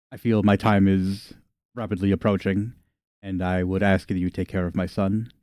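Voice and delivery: lightly voiced old lady, grave and soft; solemn elderly matriarch. Old matriarch asks visitor to take care of her son, lightly voiced and solemn.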